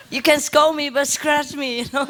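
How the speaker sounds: high, laughing voice for a pleased dog; happy dog. Retold or imitated. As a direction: plead playfully for scratches, pitched high.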